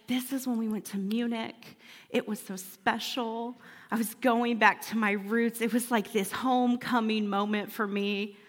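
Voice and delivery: understated emotional hush; mildly emotional. Retold or imitated. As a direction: recall it gently, a little moved. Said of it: "I got kind of emotional".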